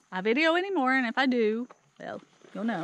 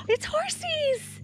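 excited. Real, not acted. Sees horses arrive.

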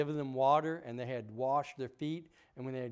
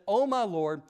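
guilty plea; 4 semitones higher, 4 dB louder than usual. Acted. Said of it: "And they said".

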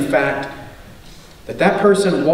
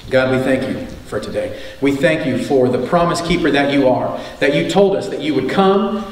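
lower, hushed prayer voice; 3 semitones lower than usual. Acted. Pastor praying over the church for the unsaved, lowered prayer voice. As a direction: pray over the congregation, earnest and low.

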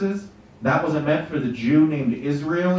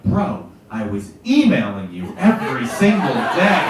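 slow, pointed, a bit louder; Jesus scolding Kevin about the emails, slow and pointed; mock exasperated Jesus; 3 semitones lower, 5 dB louder, slower than usual. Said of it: "he's gonna be like".

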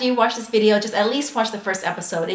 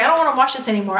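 mock tantrum; 4 semitones higher, 4 dB louder, faster than usual. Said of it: "I was like".

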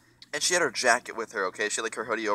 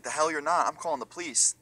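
higher-pitched mock indignation; retold angry refusal; 5 semitones higher than usual. Security guard refusing to let the friends leave, retold angry refusal. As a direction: imitate a guard putting his foot down.

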